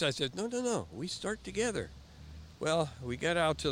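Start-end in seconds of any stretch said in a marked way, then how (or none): 0.3-1.9 much higher no no no, settling down; insist, laughing it off; high mock protest; emphatic refusal. He insists on fair start.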